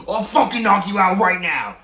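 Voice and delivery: high, loud mock threat; imitating a threat. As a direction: spit out the threat like the furious roommate. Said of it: "And he goes".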